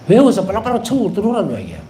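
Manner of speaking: 재촉하는 말투. Real, not acted. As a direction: hurry them along briskly. Urging hurry to heaven. (빨리 오라고 재촉하듯 빠르게)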